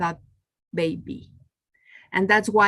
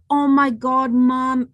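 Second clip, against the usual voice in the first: retold excited little daughter, higher and louder; excited child; 3 semitones higher, 6 dB louder, slower than usual. Daughter bursting with news to mom, excited. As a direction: imitate a thrilled kid calling to mom. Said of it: "So she was so excited. She's like".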